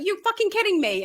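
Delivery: high incredulous question; can't believe what you're hearing; disbelief. Retold or imitated. Recalling shock at heckler.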